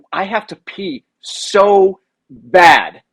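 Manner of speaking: slow, dazed mumble of a just-woken player; groggy after a knockout. Retold or imitated. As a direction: drag the words like you're still half out.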